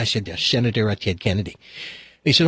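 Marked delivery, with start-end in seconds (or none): 0.3-1.6 put-on low, soft senator in a Boston accent; courteous Kennedy impersonation, pitched well down; Ted Kennedy. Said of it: "pretending to be Ted".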